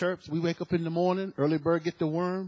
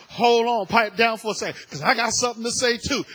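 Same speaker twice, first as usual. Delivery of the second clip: eager interrupting; 4 semitones higher, 9 dB louder than usual. Retold or imitated. Eager testimony, cutting in.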